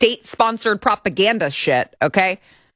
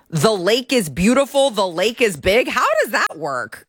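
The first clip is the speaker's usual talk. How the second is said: incredulous; 3 semitones higher than usual. Real, not acted. Host questions how one word means all that, incredulous. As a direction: stretch it out in disbelief.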